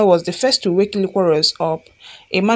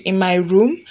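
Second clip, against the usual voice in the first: a touch of disbelief, rising at the end; mildly incredulous question. Acted. Wife questioning husband's request to sit, mildly incredulous.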